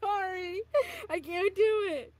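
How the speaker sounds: high, loud, overwhelmed apology; mortified outburst. Real, not acted. Streamer cringing at own song, high mortified wail.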